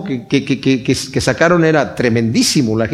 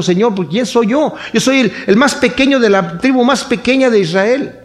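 higher, a mild hint of fear in the voice; preacher voicing a scared Gideon, higher and mildly timid; timid trembling plea; 7 semitones higher than usual. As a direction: plead like a frightened small man, lightly acted. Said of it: "Gedeón estaba temblando y dijo".

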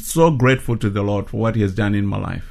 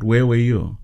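a hoarse whisper, asking God where he was; whispered plea. Retold or imitated. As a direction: breathe it out as a reproachful whisper. Angry cry to God, retold.

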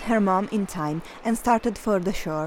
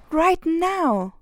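yelled; 7 semitones higher than usual. Acted. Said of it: "Hilary yelled".

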